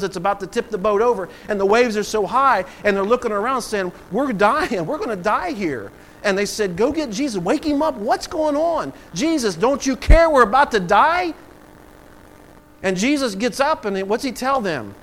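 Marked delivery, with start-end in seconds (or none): 4.1-5.9 raised, alarmed retelling of panic; mock alarm, pitch lifted; panicked disciples. Voices disciples panicking in the storm. 6.8-11.3 high, loud, urgent pleading; retold panic, climbing in pitch; panicked disciples. Voices disciples panicking in the storm.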